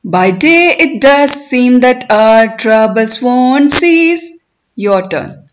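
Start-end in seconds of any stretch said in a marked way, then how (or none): 0.0-4.4 poem recitation. Shown as a demonstration. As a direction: recite it for learners, stretching the words, lifting line endings. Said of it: "I will recite line by line".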